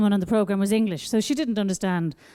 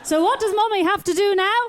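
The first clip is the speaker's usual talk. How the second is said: put-on high sing-song baby talk; 6 semitones higher than usual. Baby voice continues.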